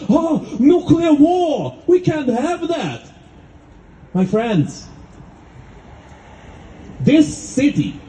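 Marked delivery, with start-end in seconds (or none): 0.1-3.0 slow, drawn-out mocking of scared appeasers; mocking whine. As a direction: parody the fearful cowards' panic. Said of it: "who shake in their boots and scream and shout".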